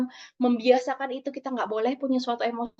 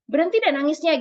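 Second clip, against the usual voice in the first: lightly acted scolding parent, louder; disapproving parent; 3 semitones higher, 6 dB louder than usual. Disapproving parent telling a crying child to stop, mildly sharp scolding. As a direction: tell a child off, a little raised. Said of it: "ada lagi disapproving parent".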